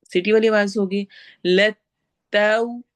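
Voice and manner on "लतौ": लतौ slowly with lips rounded on the au. Shown as a demonstration. Teacher shows rounded lips on लतौ, slow. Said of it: "होंठ गोल होंगे".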